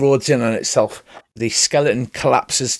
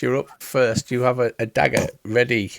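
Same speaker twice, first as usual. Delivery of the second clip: usual speaking voice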